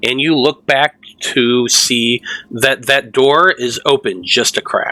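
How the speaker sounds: normal talking voice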